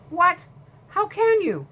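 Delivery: high, loud shocked outburst; shocked disbelief. Acted. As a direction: blurt it out in stunned disbelief. Kelly shocked by losing.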